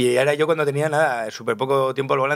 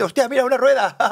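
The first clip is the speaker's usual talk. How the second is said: surprised; 10 semitones higher, 4 dB louder than usual. Retold or imitated. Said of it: "y de repente".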